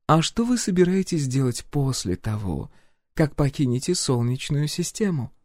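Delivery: composed royal inquiry; empress voice. A narrator's reading. Empress questions the hero's plans, lightly voiced.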